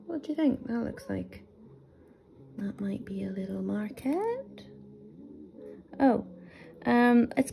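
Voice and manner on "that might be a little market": whisper. Real, not acted. Peering at a tiny mark.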